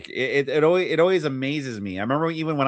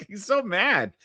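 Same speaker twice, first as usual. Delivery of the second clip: laughing; 4 semitones higher, slower than usual. Real, not acted. Laughing at host's rant.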